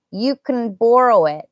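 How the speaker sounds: "can" shortened to "kn", weight on "borrow"; reduced can. Shown as a demonstration. Teacher showing how permission sounds, unstressed can. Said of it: "That's what we say it like".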